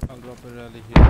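loud squad callout. Real, not acted. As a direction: call it out over the gunfire. Calling out over game noise.

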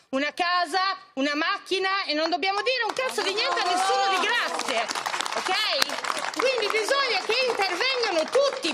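muffled behind a face mask; through a face mask. Real, not acted. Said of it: "scusate la mascherina". (voce attutita dalla mascherina)

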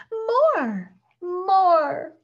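high, loud cheering shout; crowd shouting. A narrator's reading. Crowd of shoppers calling for an encore, shouting. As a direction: call out like a clamoring audience. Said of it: "chorus of other voices shouting".

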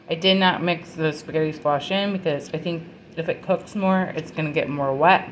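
talking with a mouth full of food; words round a mouthful. Real, not acted. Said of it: "I'm talking with my mouth full".

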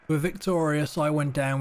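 high, loud victory call; triumphant announcement. Real, not acted. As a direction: proclaim the win with pride.

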